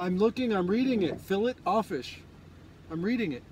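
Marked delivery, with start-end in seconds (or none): 1.2-2.2 "fillet offish" said as fill-it off-fish; "fillet offish" with a hard T and "offish". Acted. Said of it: "the filet o fish?".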